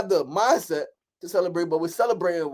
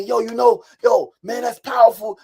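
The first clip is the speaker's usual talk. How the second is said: hype-up praise; 4 semitones higher, 6 dB louder than usual. Retold or imitated. Friends hyping him up.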